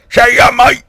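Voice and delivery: high, loud cheery farewell; hammed-up high goodbye; matey Queen. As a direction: call it out as a matey caricature queen. Queen's rough farewell acted.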